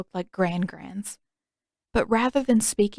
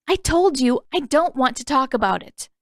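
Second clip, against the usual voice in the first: higher and louder, a curt snap; snapped; 5 semitones higher, 4 dB louder than usual. Acted. Katara shutting down her brother, snapped higher and louder. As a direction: bite the words off in anger. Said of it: "she snapped".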